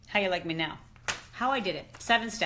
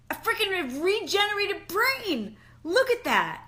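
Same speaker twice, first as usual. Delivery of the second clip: excited; 11 semitones higher, 5 dB louder than usual. Real, not acted. Excited about brain scan results.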